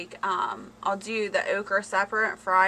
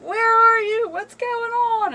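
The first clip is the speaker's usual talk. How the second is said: imitating husband; 13 semitones higher, 8 dB louder, slower than usual. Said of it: "He is like".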